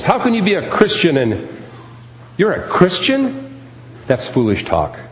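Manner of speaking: high, mocking voice of a scoffer; mocking critic. Preacher mocks critics of Christians, high and sneering. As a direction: sneer the question like a doubter.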